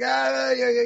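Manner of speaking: a hint of a garbled late-night phone voice; imitated Simon Bisley. Artist calling at two in the morning, lightly imitated. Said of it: "That's how he sounds".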